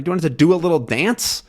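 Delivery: quick, mildly sarcastic question; mock annoyed retort. Teacher rephrasing Haddock's jab, quick and mocking. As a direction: toss it off fast and sneering. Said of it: "Haddock is kind of annoyed".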